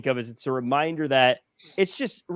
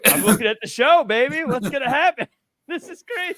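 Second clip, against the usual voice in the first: gleeful, high and teasing; cheeky onlooker; 11 semitones higher, 3 dB louder than usual. Retold or imitated. Onlooker answering an angry stranger, cheeky and gleeful. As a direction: tease the angry stranger, higher. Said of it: "then they tell you".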